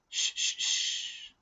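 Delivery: slow, whispered hush; shushing. Acted. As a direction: warn him to keep still. Kala warns Teo silently.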